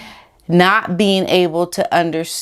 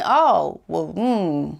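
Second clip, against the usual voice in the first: imagined Harry reflecting; 5 semitones higher than usual. Retold or imitated. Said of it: "Then you can reckon".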